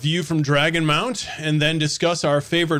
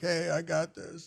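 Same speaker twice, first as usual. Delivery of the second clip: slow, hushed half-whisper; 12 dB quieter than usual. Retelling a character boasting quietly to his friends: imitating someone half-whispering. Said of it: "He was whispering to his friends".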